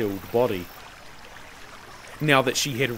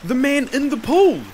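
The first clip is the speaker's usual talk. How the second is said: high, louder, insistent answer; dogged repeat; 12 semitones higher, 5 dB louder than usual. A narrator's reading. Slave repeats his answer to master, doggedly. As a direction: insist on it stubbornly. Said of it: "the slave repeated doggedly".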